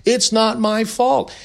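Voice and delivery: high, slow imitation of whining; whiny mock complaint. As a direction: mimic a whiner, dragging the words. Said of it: "all he does is whine".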